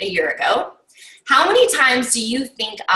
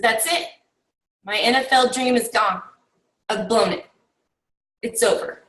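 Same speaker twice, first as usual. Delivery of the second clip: dejected player; 2 semitones lower, 4 dB quieter than usual. Retold or imitated. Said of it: "he puts his head down".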